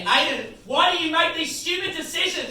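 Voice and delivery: high, nagging mock mum; mock mum scolding. Mum nagging young Aiden in a mock scolding voice. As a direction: scold your kid in mum's voice. Mum yelling at him as kid.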